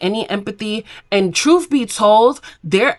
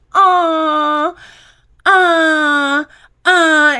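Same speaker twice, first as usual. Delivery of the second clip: mock crying; 7 semitones higher, much slower than usual. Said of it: "The girls like".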